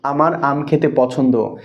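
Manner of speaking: slow, falling statement of আমার আম খেতে পছন্দ; slow spoken example; slow example sentence. Shown as a demonstration. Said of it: "একটা বাক্য বলছি".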